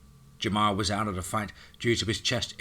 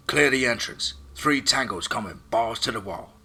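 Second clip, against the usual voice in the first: loud, high warning shout; urgent call over comms; 3 semitones higher, 6 dB louder than usual. Acted. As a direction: yell the warning to the team. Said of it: "Chuck called out over comms".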